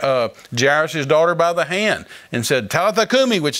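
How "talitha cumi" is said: higher-pitched mild mock yell; commanding call. Jesus raising a little girl, commanding call. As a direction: call out a retold command to rise. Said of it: "Jesus cried with a loud voice".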